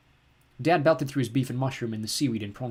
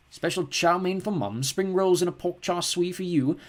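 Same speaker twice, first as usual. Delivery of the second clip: slow, reading the order; 7 semitones higher, slower than usual. Acted. Dad reads order slowly.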